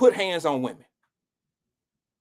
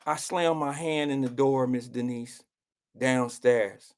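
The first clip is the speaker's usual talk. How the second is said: softer, lower meek confession; timid admission; 8 semitones lower, 5 dB quieter, slower than usual. Retold or imitated. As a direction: admit it sheepishly to his mother. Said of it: "she looked at my mother and she said".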